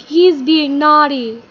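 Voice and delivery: exaggerated secretary's complaint; tattling secretary. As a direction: call it out slowly, scandalized. Secretaries tell on Todd.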